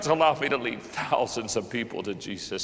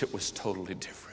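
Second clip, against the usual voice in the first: soft, low, breathy awe; preacher hushed by the memory; awed hush; 6 semitones lower, 10 dB quieter, faster than usual. Real, not acted. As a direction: let it fall to a hush.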